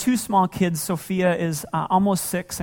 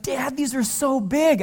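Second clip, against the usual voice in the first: put-on high, slow, amazed child voice; little girl voice; 7 semitones higher, slower than usual. Dad voices his daughter marveling at giant candy, high and slow. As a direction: sound like a wide-eyed six-year-old. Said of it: "she's like".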